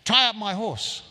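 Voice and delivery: hammed-up command to an ex-slave; mock master's order. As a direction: order him about like the old master. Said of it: "I can't quite do the accent".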